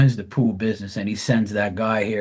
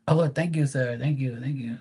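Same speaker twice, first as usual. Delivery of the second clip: polite pool guy voice; 2 semitones higher, 3 dB quieter than usual. Retold or imitated. Pool guy thanking, fading.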